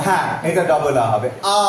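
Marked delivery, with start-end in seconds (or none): 1.6-1.6 long, drawn-out আ; elongated vowel. Shown as a demonstration. Teacher showing students the double vowel, elongated আ. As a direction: hold the আ open and long. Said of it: "এটা elongated আ".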